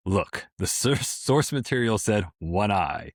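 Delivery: dry news anchor ad read; deadpan newscaster. Acted. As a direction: read it straight like evening news. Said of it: "do this in a deadpan newscaster voice".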